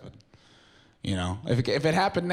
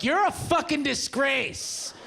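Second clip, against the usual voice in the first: scornful insult; 12 semitones higher, slower than usual. Retold or imitated. Stranger insulting fake fireman.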